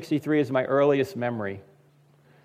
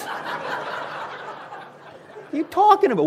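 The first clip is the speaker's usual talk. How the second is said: mocking rant; faster than usual. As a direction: tear into the commentator with scorn. Mocking ranting at TV commentator.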